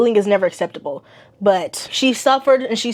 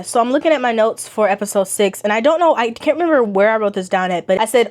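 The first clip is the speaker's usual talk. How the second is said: ordinary talk, nothing marked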